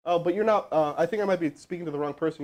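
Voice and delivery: normal talking voice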